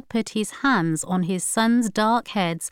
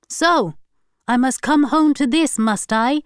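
sharp, loud and higher, accusing; angry retort; 6 semitones higher, 5 dB louder than usual. A narrator's reading. Husband snapping at crying wife, angry. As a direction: throw the blame back at her. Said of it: "he said".

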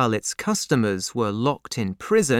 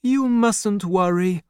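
slow, higher-pitched reassurance; calm reassurance; 8 semitones higher than usual. A narrator's reading. Doctor answers worried banker, calmly reassuring. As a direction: reassure them slowly and steadily. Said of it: "the doctor answered calmly".

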